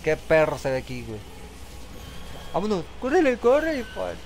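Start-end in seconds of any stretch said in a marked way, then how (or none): 2.5-4.1 urgent shout. Real, not acted. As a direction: hurry them along. Urge al personaje a huir. (grito urgente)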